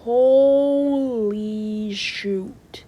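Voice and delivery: shocked exclamation after the storm alert; stunned disbelief. Acted. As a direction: let it hang, very slowly, in disbelief. Hearing the disaster warning.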